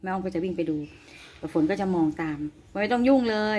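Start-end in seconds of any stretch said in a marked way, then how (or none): 2.6-3.6 gentle telling off. Retold or imitated. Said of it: "แม่อ้อมจะบอก".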